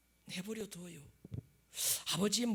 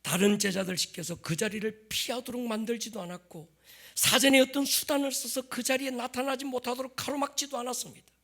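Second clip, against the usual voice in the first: impassioned preaching; 6 semitones higher, 7 dB louder than usual. Acted. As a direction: press the question home, loud. Preaches at full force.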